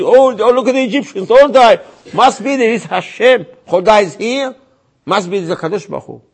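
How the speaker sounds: loud, high-pitched astonishment; amazed onlooker. Retold or imitated. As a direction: cry it out like a stunned witness. Acting amazed onlookers seeing Egyptians die.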